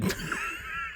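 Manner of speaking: high, airy helpless laugh; embarrassed laugh. Real, not acted. Streamer realizing dad heard the joke, high embarrassed laugh. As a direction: squeal with quiet laughter.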